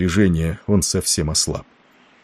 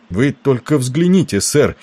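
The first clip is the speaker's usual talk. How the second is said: higher, excited call to look; urgent interjection; 7 semitones higher, 4 dB louder than usual. A narrator's reading. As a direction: break in and urge the captain to look. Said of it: "вмешался Кэррингтон". (взволнованно, настойчиво вмешиваясь)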